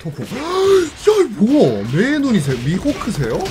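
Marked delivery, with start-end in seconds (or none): 0.3-1.2 sudden high sharp gasp; startled gasp at the screen. Real, not acted. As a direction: gasp out loud in shock.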